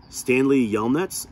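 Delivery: loud, slow call across the lake. A narrator's reading. Lawyer calling out to Stanley across the lake, loud and slow. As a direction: call his name from a distance. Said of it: "she called".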